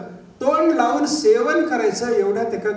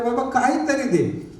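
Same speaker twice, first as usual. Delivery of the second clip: higher, drawn-out beggar's plea; imitating a hungry man's plea; pleading; 5 semitones higher than usual. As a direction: stretch it out as you beg for anything. King begging for food, starving.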